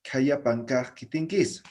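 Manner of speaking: Kayapankaj kitinkis said slowly; slow careful Kayapankaj kitinkis; Aymara phrase. Shown as a demonstration. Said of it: "¿no ve?". (frase aymara dicha despacio)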